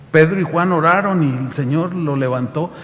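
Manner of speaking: ordinary talk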